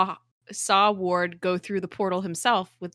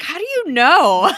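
high, loud, drawn-out question through laughter; mock incredulous shout; 9 semitones higher, 10 dB louder than usual. Co-host mimicking Hunter's challenge to Coulson, mock incredulous shout. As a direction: playfully cry out in disbelief.

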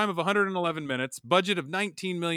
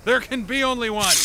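dramatic movie quote; 9 semitones higher, 7 dB louder than usual. Acted. Highlander movie quote cold open.

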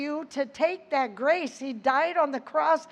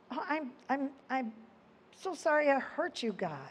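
soft, hushed sinner's apology, quickening on the sorry; a quiet, half-acted confession to God; contrite prayer; 5 dB quieter than usual. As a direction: whisper it like a guilty child begging God's pardon.

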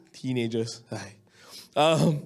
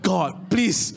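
retold desperate prayer; 4 semitones higher, slower than usual. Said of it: "eh, I said".

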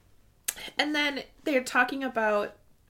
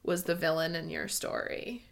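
mildly heartbroken; 4 semitones lower than usual. Retold or imitated. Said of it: "I just had this heartbreaking moment".

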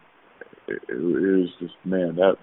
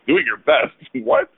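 mock outrage that cracks into a laugh; incredulous, laughing; 8 semitones higher, slower than usual. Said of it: "LeBron's like".

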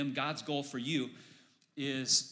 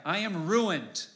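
anguished cry; 5 semitones higher, 5 dB louder, slower than usual. Acted. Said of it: "I cried".

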